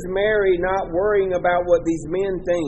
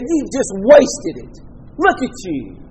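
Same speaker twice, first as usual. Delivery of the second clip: mock scolding; 4 dB louder than usual. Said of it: "And they began scolding her".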